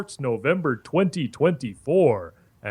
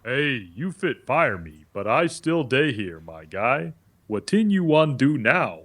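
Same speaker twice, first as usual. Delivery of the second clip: put-on West African pidgin English accent. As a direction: speak with a Nigerian accent. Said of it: "Stop doing the African accent".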